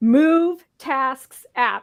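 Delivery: very slow, careful delivery. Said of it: "I have to say it slowly".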